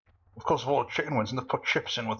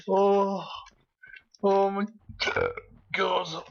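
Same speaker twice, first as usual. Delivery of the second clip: exclaiming; 9 semitones higher, much slower than usual. Real, not acted. Laughing fit over own joke.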